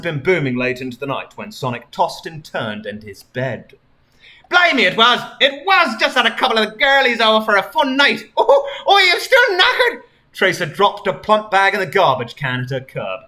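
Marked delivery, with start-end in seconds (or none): 4.5-10.0 high, loud British chatter ending in a laugh; cheery British. Acted. Tracer tells Sonic about her party, cheery British gush. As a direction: gush in a jolly cockney-ish British accent. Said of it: "cheery British voice".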